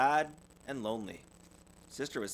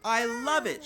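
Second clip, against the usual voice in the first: high, louder thrilled squeal; delighted little girl; 12 semitones higher, 6 dB louder than usual. Acted. Sister Bear thrilled with her new locket, high delight. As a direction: gush over the gift. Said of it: "she said".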